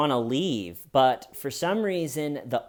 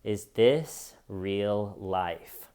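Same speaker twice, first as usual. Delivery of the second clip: very slow, lower, falling in dazed wonder; stunned disbelief; 5 semitones lower, much slower than usual. Retold or imitated. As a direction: drag it out in blank disbelief. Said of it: "your first reaction is".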